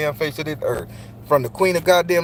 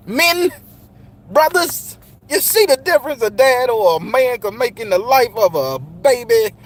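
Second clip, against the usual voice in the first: raised appeal; 5 semitones higher than usual. Real, not acted. Appealing to men.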